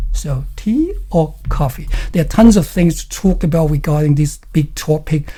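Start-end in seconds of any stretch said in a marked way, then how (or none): 0.6-1.9 "tea" goes up, "coffee" comes down; choice-question tune. Shown as a demonstration. Teacher repeats the choice question, up on "tea", down on "coffee". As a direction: raise "tea", then let "coffee" fall. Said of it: "and then going down".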